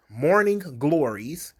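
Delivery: scornful echo of the term; mocking repeat. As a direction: say it again with disdain. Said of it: "hey, morning glories".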